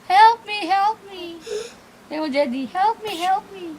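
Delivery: hammed-up crying plea; mock plea. Pretend plea to the child for help. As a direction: beg for help through fake tears.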